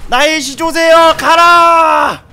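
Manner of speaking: high, loud, slow heroic command; dramatic battle cry. Pretend. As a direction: bellow it like a summoner unleashing a beast. Commanding his bird into battle.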